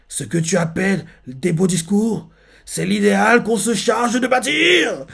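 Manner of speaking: phrase lancée haut et fort; cri de Mirio. Retold or imitated. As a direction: proclamer un idéal en criant. Mirio lui crie ça. (Mirio répond à l'héritier, crié plus haut)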